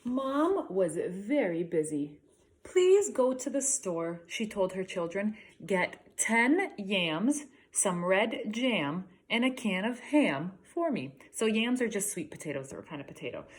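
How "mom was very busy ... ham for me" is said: slow, clear storybook voice, Mom's lines pitched up; story reading to children. Acted. Teacher reading a picture book to grade threes, slow and clear. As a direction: read it slowly for young listeners.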